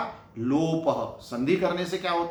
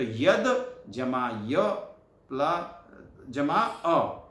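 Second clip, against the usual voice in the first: slow spelling out; much slower than usual. Shown as a demonstration. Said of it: "यह इसका उच्चारण है".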